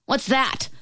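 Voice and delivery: high, sudden royal query; a startled, testy king; mildly irritated snap; snapped question. A narrator's reading. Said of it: "snapped the king".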